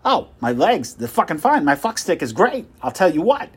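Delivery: puffed-up boasting at full volume; loud bragging. Acted. Salesman bragging loudly.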